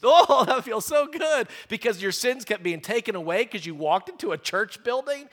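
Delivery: laughing, hammed-up sigh of relief; laughing mock bliss. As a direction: play the smug churchgoer, chuckling. Mock churchgoer feeling sins lifted.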